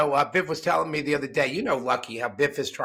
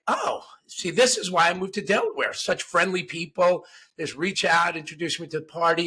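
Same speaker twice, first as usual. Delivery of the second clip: higher, eager voice for Biff; naive Biff; 3 semitones higher than usual. Retold or imitated. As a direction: play the delighted newcomer. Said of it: "And Biff's like".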